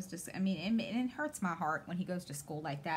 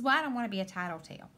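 son's quick excuse; 2 semitones higher, 4 dB louder, much faster than usual. Retold or imitated. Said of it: "he says".

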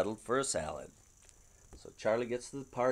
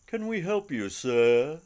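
shop clerk; 3 semitones higher, 7 dB louder, slower than usual. Acted. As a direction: greet him like an eager salesclerk. Shop clerk greets Charlie.

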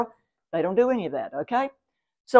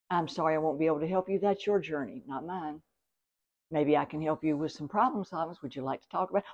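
softer, fast, calm boundary-setting; 7 semitones lower, 8 dB quieter than usual. Shown as a demonstration. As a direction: calmly decline to take on their drama. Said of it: "Just say".

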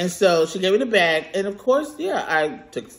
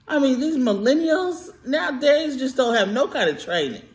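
put-on old lady; 7 semitones higher than usual. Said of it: "I sound like an old lady when I talk like that".

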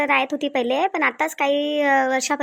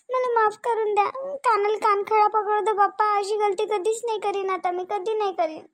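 pleading; 4 semitones higher than usual. Acted. Wife begs angry husband to forgive her, pleading high. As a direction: plead as if dreading a beating.

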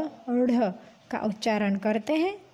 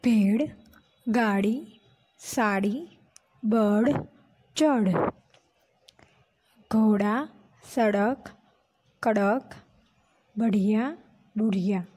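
read-along word list. Shown as a demonstration. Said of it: "आपको भी मेरे साथ पढ़ना है".

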